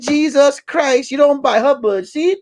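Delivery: outraged old goat reacting to gossip; shocked goat. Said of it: "He said".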